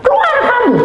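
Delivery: high, sustained mimicked yell; retold shout. Night intruder ordering the householder out, mimicked high shout. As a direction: call out high, imitating someone yelling outside. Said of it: "Teriak lagi".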